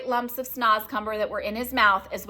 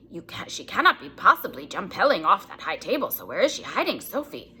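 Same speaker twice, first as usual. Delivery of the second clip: a lightly voiced worried giant, murmuring to himself; a hint of the gentle giant searching in panic; BFG's anxious thoughts. BFG wonders where Sophie went, worried giant voice.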